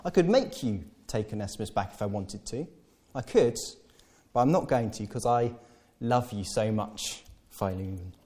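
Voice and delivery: softening, fading into tenderness; tender appeal. Retold or imitated. Paul coaxing Philemon, fading to tender softness. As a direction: melt into a soft plea. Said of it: "Again, he lays it on".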